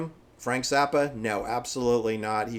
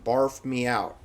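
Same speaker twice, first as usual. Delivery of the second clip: put-on valley girl; slower than usual. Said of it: "expressions on the song that Moon Unit sings".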